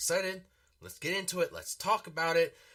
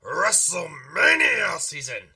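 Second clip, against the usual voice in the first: excited; 4 semitones higher, 8 dB louder than usual. Real, not acted. Hyping WrestleMania season.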